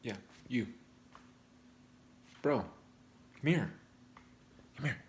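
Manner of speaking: a soft stage hiss calling a bro over; conspiratorial hush. Pretend. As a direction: lure him in with a secret. Secret-sharing hush to viewer.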